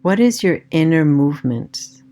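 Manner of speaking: calm meditation voice with long pauses; guided meditation. Acted. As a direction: guide them gently inward, leaving space after each phrase.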